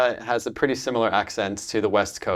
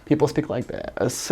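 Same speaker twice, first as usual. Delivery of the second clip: vocal fry. Shown as a demonstration. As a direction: creak into the last word. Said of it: "like, vocal fry".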